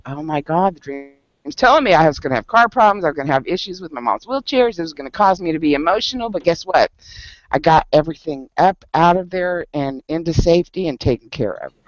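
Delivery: fast, tumbling realization; retold eureka, quick and eager; excited realization. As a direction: rush through it as it all clicks. Retold realisation about the dream.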